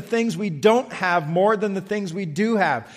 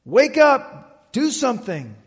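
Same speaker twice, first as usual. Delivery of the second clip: mock panic. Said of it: "they're just freaking out".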